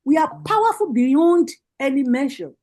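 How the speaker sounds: rousing rally address, rising on each call; fiery political speech. Real, not acted. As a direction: preach it to the party women like a campaign rally. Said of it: "spitting fire".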